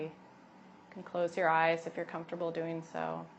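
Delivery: calm, unhurried yoga teacher voice; guided meditation. Acted. Yoga teacher settling expectant mothers into breath, guided meditation. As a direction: guide them gently inward, leaving long pauses.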